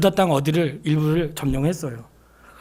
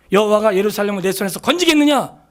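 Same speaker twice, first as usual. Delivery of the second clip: mocking; 4 semitones higher than usual. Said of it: "조롱하는 말이에요".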